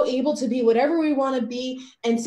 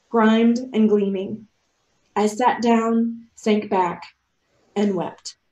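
story reading; 2 semitones lower than usual. A narrator's reading. Speaker reading her story to listeners, measured narration. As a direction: read it aloud in deliberate short phrases. Reads a written narrative aloud.

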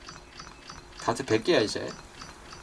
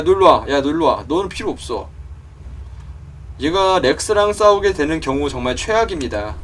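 ordinary talk, nothing marked

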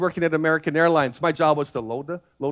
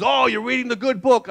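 cheerful, higher pilot greeting; happy pilot; 5 semitones higher than usual. Retold or imitated. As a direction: brighten up like a friendly pilot. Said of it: "he was happy".

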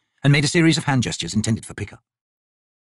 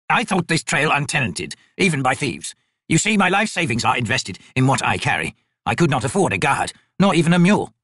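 lightly voiced, formal old merchant; humble old trader; 3 semitones higher than usual. Old trader explains himself to soldiers, mildly anxious and formal. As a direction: plead poverty with careful courtesy.

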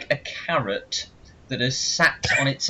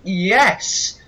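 cheering; 7 semitones higher, 4 dB louder than usual. Retold or imitated. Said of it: "the K K K were like".

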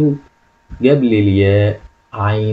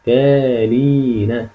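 المختالين read very slowly, stretched out; slow model reading; much slower than usual. Shown as a demonstration. Teacher modelling the word slowly for pupils. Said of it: "نقراها المختالين".

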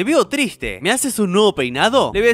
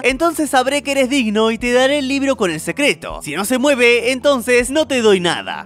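a bit higher, measured instructor voice; stern karate master; 4 semitones higher than usual. Acted. Karate instructor sets test.

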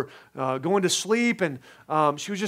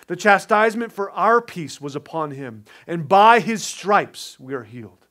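scripture reading; 3 dB louder than usual. Acted. Pastor reads Isaiah to his church, measured and solemn. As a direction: read the verses to the congregation with weight.

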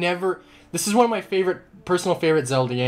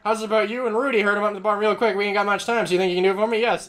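higher-pitched southern farmer voice; southern accent; 6 semitones higher, faster than usual. Acted. Player voicing a farmer asking Rudy a favour, southern accent. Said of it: "how to do a southern accent".

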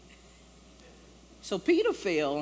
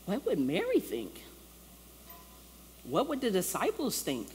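accusing inner voice; 4 semitones higher, 4 dB quieter than usual. Retold or imitated. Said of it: "hearing the voice of saying".

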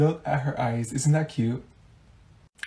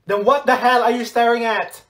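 raised, higher-pitched challenge; loud, indignant demand; angry confrontation; 7 semitones higher, 5 dB louder than usual. Acted. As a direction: snap at someone caught staring. Confronting someone who stares.

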